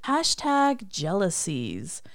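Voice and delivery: "Hashtag jealousies" drawn out slowly; jealous catchphrase. Shown as a demonstration. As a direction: stretch "Hashtag jealousies" like a running joke. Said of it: "That's how we say it".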